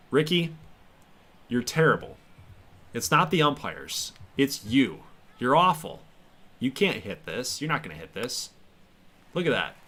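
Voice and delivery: mocking taunts at the batter, half joking; trash talk. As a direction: needle the hitter like a heckler. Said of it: "I'm gonna talk so much crap to him".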